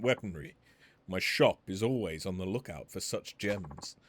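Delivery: lightly voiced courteous weapons smith; a measured, polite merchant pitching his trade; refined shopkeeper. Polite weapons smith explaining his business to Majima, lightly voiced.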